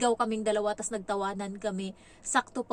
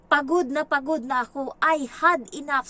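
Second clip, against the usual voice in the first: put-on higher, louder child's complaint; voicing the child; 4 semitones higher, 7 dB louder than usual. Nanny voices the boy's blackboard complaint to his parents, higher and louder. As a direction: plead like a worn-out kid. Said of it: "Sabi niyang ganun".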